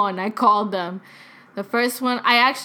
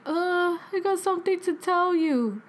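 retold nervous confession; 8 semitones higher, 4 dB quieter than usual. Nervous confession to her dad.

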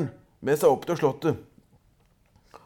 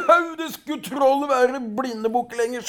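furious troll; 6 semitones higher than usual. A narrator's reading. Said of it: "skreik trollet".

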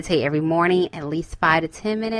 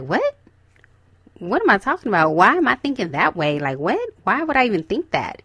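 mock-baffled inner voice, pitch jumping about; incredulous self-questioning; 2 semitones higher than usual. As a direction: question yourself in mild disbelief. Acting out the self questioning a thought.

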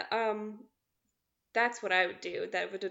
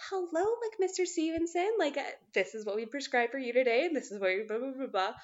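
higher-pitched greeting that settles down; customer service voice; 5 semitones higher than usual. Shown as a demonstration. Greeting a patient at work, higher service voice. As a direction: open high and polite for a patient. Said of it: "customer service voice is definitely higher".

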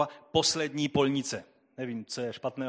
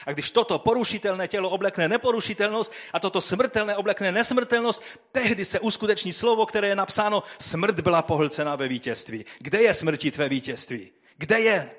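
raised, higher proclamation of victory; triumphant preaching, higher and louder; preaching at full force; 6 semitones higher, 5 dB louder than usual. Acted. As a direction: ring it out like a trumpet call. Preaches the resurrection passage.

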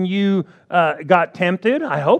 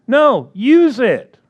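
firm slow rebuke; 5 semitones higher, 5 dB louder, much slower than usual. Acted. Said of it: "preacher answering the excuse".

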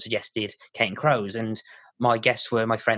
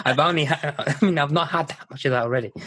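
laughing through it, pitched higher; 5 semitones higher than usual. Real, not acted. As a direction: chuckle while you answer. Teased by host, laughs.

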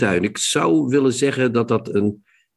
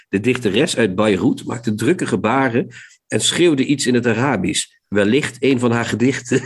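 reading aloud. Acted. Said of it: "Als ik die voorlees".

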